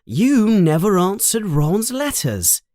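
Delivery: high voice climbing as she scolds; mother's rising scold. Acted. Mother complaining about the stolen flying car, rising and high. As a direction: let the telling-off build.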